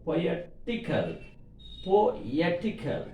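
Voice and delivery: slow "poetical", leaning on ET; stress on ET. Shown as a demonstration. Teacher showing the rule, slow "poetical" stressed on ET. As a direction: stretch "poetical" and weight the ET. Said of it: "Suffix before letter".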